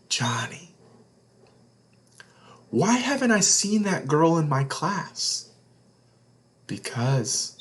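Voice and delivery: put-on a secret whispered to young listeners; hushed whisper. A narrator's reading. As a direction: lean in and whisper the question. Reads picture book aloud.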